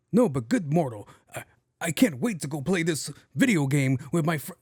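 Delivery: lightly voiced theatrical gamer; a hint of grand, old-time role-player speech; in-character gamer. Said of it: "Why is he talking like this?".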